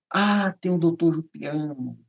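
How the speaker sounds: long drawn-out 'ah' of remembering; drawn-out, pondering recollection; dawning realisation. Retold or imitated. Recalls his own sudden idea.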